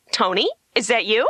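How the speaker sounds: high, gushing pretend reunion; hammed-up eager recognition; mock delighted greeting. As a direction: squeal hello in fake delight. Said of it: "Run over and go".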